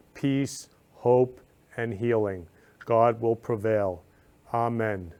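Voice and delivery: earnest, measured prayer read aloud; sincere prayer for Ukraine's families. Real, not acted.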